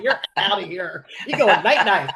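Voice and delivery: joking through real laughter; laughing. Real, not acted. Mother joking about worn-out babies, laughing.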